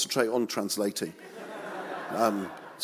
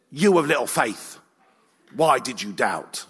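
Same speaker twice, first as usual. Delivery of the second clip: mock stern rebuke, a touch louder; stern angry God; 5 dB louder than usual. Shown as a demonstration. Preacher mocks the angry Jesus voice he doubts, mild stern rebuke. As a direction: play the cross, scolding Jesus. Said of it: "he said in this voice".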